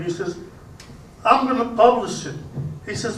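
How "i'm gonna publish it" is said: higher-pitched, mildly excited bartender; excited promise. Acted. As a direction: announce it with raised pitch, lightly acted.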